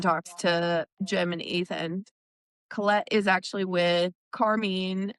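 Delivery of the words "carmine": CARMINE said with a long "ee" at the end, like car-MEEN; name variant with ee. Shown as a demonstration. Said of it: "is it Carmine or Carmine".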